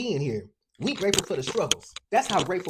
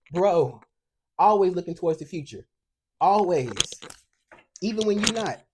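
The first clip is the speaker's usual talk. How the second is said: emphatic; 5 dB louder than usual. Real, not acted. Emphatic tarot reading insistence.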